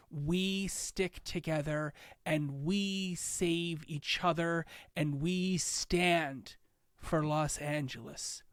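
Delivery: slow, solemn civic address; steady the crowd with gravity; mayor turns solemn after a horrible weekend, slow; serious speech. Acted. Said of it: "then she gets really serious".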